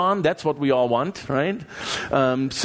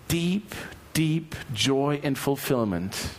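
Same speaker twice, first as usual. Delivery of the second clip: soft sincere emphasis; 2 semitones lower, 4 dB quieter, slower than usual. Real, not acted. Savoring joy again.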